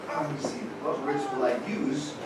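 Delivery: low, soft thinking aloud; hushed, mock-pondering voice; quiet deliberation. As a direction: act out musing to oneself. Jesus privately choosing his words.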